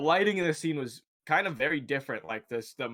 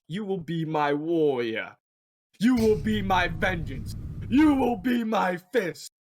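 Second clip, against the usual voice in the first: booming god voice, building higher and louder each line; Khonshu's voice; 5 semitones higher, 4 dB louder than usual. Retold or imitated. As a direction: swell into a commanding deity's decree. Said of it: "you hear the voice, like, of Khonshu".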